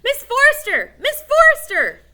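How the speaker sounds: very high, very loud calling; shouting. Acted. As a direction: bellow her name at top of lungs. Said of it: "shouted at the top of their lungs".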